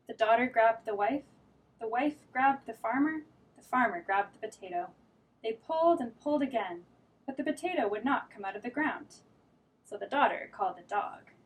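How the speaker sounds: lively read-aloud storytelling; reading to children. A narrator's reading. Teacher reading a picture book to children. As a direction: read it like story time for little kids.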